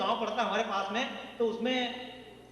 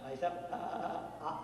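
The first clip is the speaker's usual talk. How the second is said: stammering asker; 6 semitones lower, 5 dB quieter than usual. Retold or imitated. Comedian imitates a second stammering man asking the name. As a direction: stutter the question out. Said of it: "उसने पूछा".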